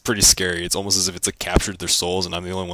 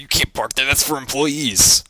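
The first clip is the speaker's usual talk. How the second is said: bossy lady; 6 semitones higher, 4 dB louder, slower than usual. Retold or imitated. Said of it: "She's like".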